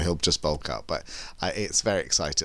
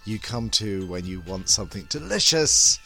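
femme fatale; 4 dB louder than usual. Acted. Sultry podcast host intro.

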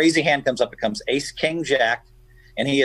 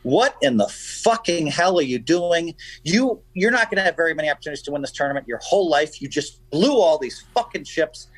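retold yelling; 4 semitones higher than usual. Backer berating his player at dinner break, retold yelling. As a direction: scold him in a heated, higher voice, reenacted. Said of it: "start yelling at him".

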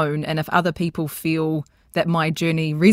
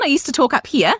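pitched up high, very bright; high young voice; 8 semitones higher, 3 dB louder than usual. Shown as a demonstration. Coach showing their younger self's voice, high and bright. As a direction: put the voice up in the cheeks. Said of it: "my voice was really, really high".

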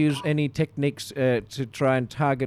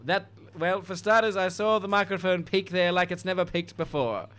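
put-on receptionist; 5 semitones higher than usual. Receptionist tells action star what films she knows, high-pitched. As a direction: humour the caller in a high voice.

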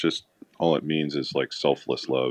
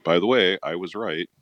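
smug victory lap; 4 semitones higher, 4 dB louder than usual. Retold or imitated. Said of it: "he was taking a victory lap".

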